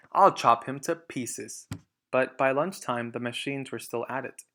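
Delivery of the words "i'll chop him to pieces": slow, loud threat; menacing threat. Acted. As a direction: snarl it out slowly. Bunce threatening.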